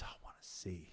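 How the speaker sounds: very soft, near-whispered quote; understated, hushed acted answer; hushed reply. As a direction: drop to almost a whisper. Blind man's reply in retelling.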